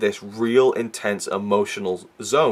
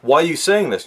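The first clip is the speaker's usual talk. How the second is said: mild mock outrage, rising at the end; retold outburst; 2 semitones higher than usual. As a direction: imitate an exasperated sister losing it. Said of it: "Skylar loses her shit".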